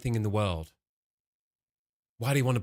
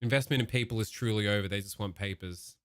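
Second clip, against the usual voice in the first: imitating Marco. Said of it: "talk like this cunt".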